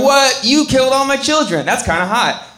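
a hint of a swooning woman; mock shocked lady. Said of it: "a lady comes down and is like".

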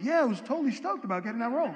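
fast, laid-back California surfer-dude English; a breezy California dude, lightly imitated. Actor stoked about his role, California dude. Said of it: "he was just like a California dude".

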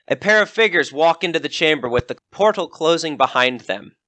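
measured storyteller voice for a dungeon scene; scene narration. A narrator's reading. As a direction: set the scene like a game master. Game master scene setting.

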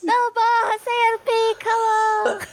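put-on high, slow pleading kid's cry; Gohan child voice. Imitating young Gohan's dub begging Piccolo, high tearful childish cry. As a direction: beg like a little boy losing his mentor. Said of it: "Fez igualzinho".

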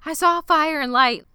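high, awestruck voice, lifted well above her own; awed character voice. Retold or imitated. Lottie tells Laura Lee about her vision, awed and high. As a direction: gasp it out in wonder, pitched high. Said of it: "and Lottie says".

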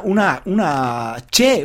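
"che" said as a clear ch sound. Shown as a demonstration. Teacher showing students how Argentines say ll. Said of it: "es casi una".

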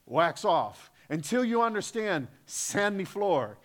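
hammed-up Miyagi accent coaching wax on, wax off; mock Japanese-English accent of the movie sensei; Miyagi-san accent. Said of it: "that's a really bad accent of Miyagi-san".

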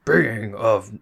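orc voice. Shown as a demonstration. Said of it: "oh, that's like orc voice".

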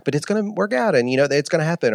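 high-pitched comforting quote; imitated reassurance. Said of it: "she was like".

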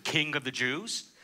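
slow, ironic mocking title; a slow, lightly mocking sneer; ironic mockery. Shown as a demonstration. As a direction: let the sarcasm sit on it. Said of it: "this ironic mocking statement".

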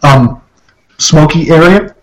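hiccuping between words; talking through hiccups. Real, not acted. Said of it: "Excuse me, hiccups".

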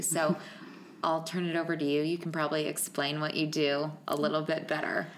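echoey room sound; echoey mic. Real, not acted. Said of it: "I feel like I sound very echoey".

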